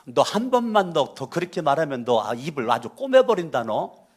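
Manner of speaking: a touch of tough Chungcheong dialect threat; mock threat in Chungcheong dialect, not really angry; 충청도 사투리로 가볍게 협박하듯. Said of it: "우리 충청도는 세게 말해도".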